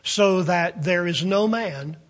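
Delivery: weighty prophetic reading; scripture reading. Acted. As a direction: read it like prophecy from the pulpit. Reads Zephaniah aloud.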